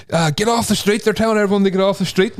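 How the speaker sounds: high shouted warning from a stranger; English boy shouting. Retold or imitated. English boy yelling warning at lost friend in storm. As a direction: call out the warning like a passing English lad. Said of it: "shouts out, he's all".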